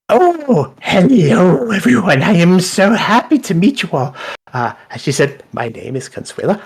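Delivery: high, bubbly cook voice; a cheerful cook gushing hello; dragonborn cook voice. Acted. Dragonborn cook greeting the party, high and bubbly. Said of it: "she looks at you all and she goes".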